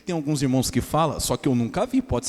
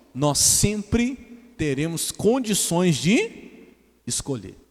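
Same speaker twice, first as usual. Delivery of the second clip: slow emphatic; much slower than usual. Acted. Pastor stresses the key phrase.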